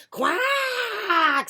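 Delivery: high, loud duck squawk; one long alarmed quack; startled mother duck. Acted. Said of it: "said Missus Mallard".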